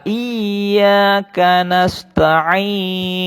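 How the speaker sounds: slow chanted tilawah; Quran recitation. Shown as a demonstration. Teacher chants the verse for pupils to repeat. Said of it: "seperti itu".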